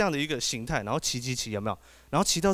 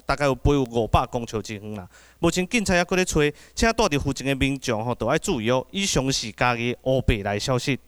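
mock radio news read. Comedian plays a radio host reading mock news to the crowd. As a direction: read it like a small-town radio bulletin.

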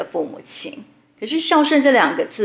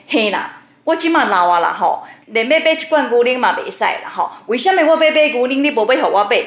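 Taiwanese opera lament; 3 semitones higher than usual. Retold or imitated. Old mother to her son at the supermarket, a hammed-up opera lament. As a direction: ham up a pitiful Hokkien opera heroine. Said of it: "就会在全联开始演歌仔戏".

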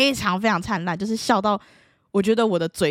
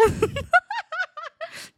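high laugh. Real, not acted. Laughing at her own story.

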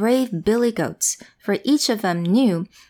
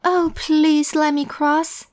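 pleading goat; 7 semitones higher, 3 dB louder, slower than usual. Acted. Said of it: "said the middle-sized goat".

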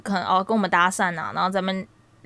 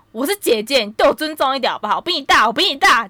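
angry; 6 semitones higher, 3 dB louder than usual. Retold or imitated. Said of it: "我就真的生气".

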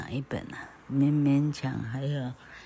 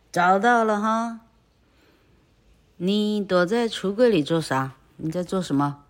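high, loud gotcha; 抓到了，大声责问; triumphant scolding; 5 semitones higher, 4 dB louder than usual. Acted. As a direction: catch the boy and scold. Aunt catching boy.

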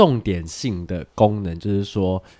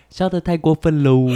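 laughing; 7 semitones higher, 4 dB louder than usual. Real, not acted.

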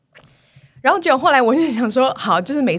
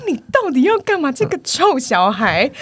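exasperated rant; 4 semitones higher, slower than usual. Retold or imitated. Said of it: "我想说".

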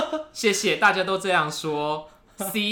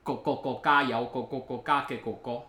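mock Cantonese. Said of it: "你再念一次".

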